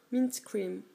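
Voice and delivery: Mint Cream in an English accent, cream as a long English ee. Shown as a demonstration. Vlogger corrects the polish name for viewers, English accent. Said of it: "Avec l'accent anglais".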